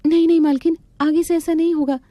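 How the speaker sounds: pleading maid. Acted. Maid begs her angry mistress, high pleading. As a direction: beg her not to throw you out.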